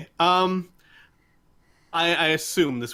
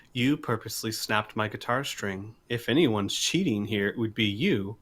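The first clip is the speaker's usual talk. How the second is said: calm, patient; 3 dB quieter than usual. Acted. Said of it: "very calmly and patiently say".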